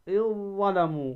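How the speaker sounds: "إذ ظلموا" as iZ-Zalamu; dhal merged into za. Shown as a demonstration. Teacher repeating the example, إذ ظلموا with doubled ظ. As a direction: hold one heavy ظ in place of ذ in إذ. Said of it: "تدغم الذال".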